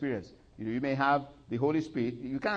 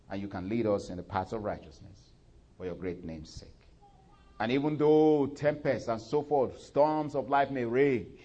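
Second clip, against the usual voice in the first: pastoral prayer. Acted. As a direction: pray gently over the people. Leading prayer.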